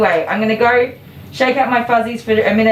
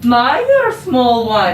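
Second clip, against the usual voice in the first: Warcraft character line; 3 semitones higher, 3 dB louder, much slower than usual. Retold or imitated. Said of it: "There's the Irish characters in Warcraft".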